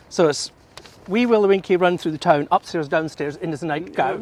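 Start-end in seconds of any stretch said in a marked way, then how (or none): 1.1-4.2 posh English accent. Shown as a demonstration. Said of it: "Very posh".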